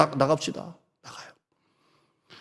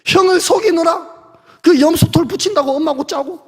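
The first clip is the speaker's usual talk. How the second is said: exasperated; 6 semitones higher than usual. Acted. Jacob's tiring life, pitched up.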